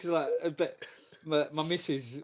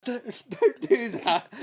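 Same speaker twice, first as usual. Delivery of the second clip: failed dad voice; 6 semitones higher, 5 dB louder, slower than usual. Retold or imitated. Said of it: "I tried to put my, on my dad voice".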